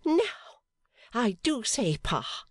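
high, indignant protest to Pa; indignant cry. A narrator's reading. Fanny scolds her father, high and indignant. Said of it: "she cried".

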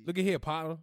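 "partner" as "potnuh", "here" without its R; Atlanta pronunciation. Shown as a demonstration. Hunting for the dropped letter, "partner" said "potnuh". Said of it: "people in Atlanta don't pronounce".

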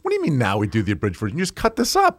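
baffled objection, played for laughs; mock incredulous protest. Retold protest about abridged version.

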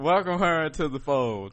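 mock pastor. Playing her pastor after teasing.

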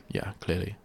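ordinary talk, nothing marked

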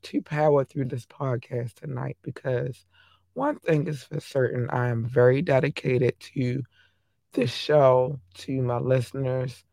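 hoarse, strained voice; voice giving out. Real, not acted. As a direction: push through a hoarse voice. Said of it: "And I'm hoarse".

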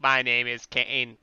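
slow, even robot cadence. Shown as a demonstration. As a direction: stretch each word out mechanically. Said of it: "Could you do that one more time?".

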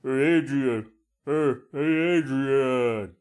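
boxer's drawn-out call for his love; Rocky. Retold or imitated. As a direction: imitate a movie boxer calling out. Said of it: "Wish I had that Rocky voice".

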